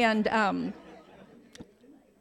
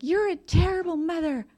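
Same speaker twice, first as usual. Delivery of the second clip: higher, sharper mock yell; imitating stepmom yelling; 8 semitones higher, 4 dB louder than usual. Stepmom yelling at the drunk mother, imitated high mock yell. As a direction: throw the accusation like the angry stepmom. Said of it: "starts yelling at me".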